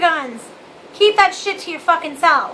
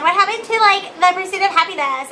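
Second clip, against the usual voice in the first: put-on Valley Girl version; 3 semitones higher than usual. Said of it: "I sound like a Valley Girl".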